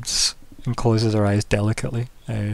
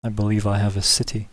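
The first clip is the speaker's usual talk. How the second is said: smirking governor. Acted. Governor offers aid for the breach, measured and slow. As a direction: speak as a ruler concluding business, unhurried. Game master voices the governor.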